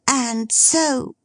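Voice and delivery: put-on lively girl teasing her dad; girlish Meg. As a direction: tease your father brightly.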